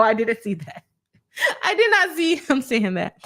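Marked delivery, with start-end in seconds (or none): 1.6-3.2 laughing while talking. Real, not acted. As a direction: say it through laughter. Laughing at a chat comment.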